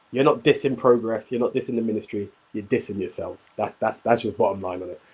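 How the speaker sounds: usual speaking voice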